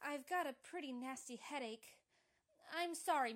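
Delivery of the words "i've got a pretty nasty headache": softly tearful, holding back crying. Acted. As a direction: choke back tears as you speak. Upset operator hiding her trouble.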